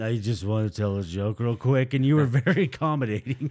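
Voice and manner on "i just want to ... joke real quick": put-on drunken slurring, much lower pitch. Retelling a drunk woman asking for the mic, imitating drunken slurring. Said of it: "very drunkenly slurs out".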